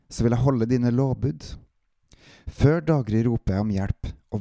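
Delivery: measured psalm reading, phrase by phrase; deliberate recitation with pauses between verses; scripture reading. Acted. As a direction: read the psalm aloud as an earnest prayer. Reads the psalm aloud.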